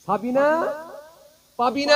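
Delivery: calling out. Retold or imitated. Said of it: "ডাকতে শুরু করেছে".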